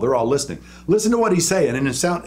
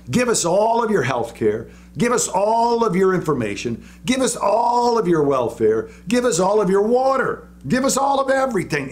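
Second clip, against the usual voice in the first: mock government promises; 4 semitones higher than usual. Preacher mocking government's promises.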